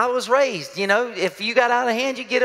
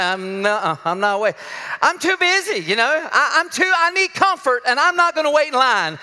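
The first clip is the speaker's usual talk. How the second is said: stubborn refusal; 3 semitones higher than usual. Retold or imitated. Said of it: "I'm like".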